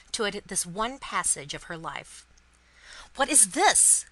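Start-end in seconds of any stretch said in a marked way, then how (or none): 3.1-4.0 raised, loud startled question; breathless, confused outcry; alarmed cry. A narrator's reading. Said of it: "cried Mister Lorry, breathless and confused".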